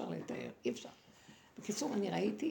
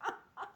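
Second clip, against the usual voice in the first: high mocking snake cackle; put-on scornful laughter; imitated echoing laugh; 10 semitones higher, 3 dB quieter than usual. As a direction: act out a taunting, resounding laugh. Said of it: "צחוק כזה, מהדהד".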